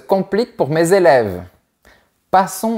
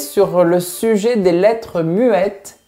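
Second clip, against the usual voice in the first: a hint of a grand, self-satisfied inventor; mildly lofty inventor of French; lightly voiced pompous creator; 4 semitones higher than usual.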